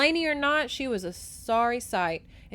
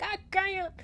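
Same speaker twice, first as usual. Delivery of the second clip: high mock wail; imitated anguish; 10 semitones higher than usual. Reader re-enacts heroine's refusal, high and anguished. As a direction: whine it like a tragic heroine. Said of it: "And she's like".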